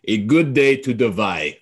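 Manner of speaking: tentative Russian accent, warming into it; attempted Russian accent. Shown as a demonstration. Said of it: "do a good Russian accent, but I'll try".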